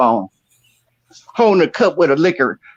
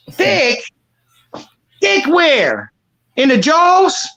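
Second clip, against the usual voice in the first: mock disbelief; 9 semitones higher, much slower than usual. Mocking incredulous comeback.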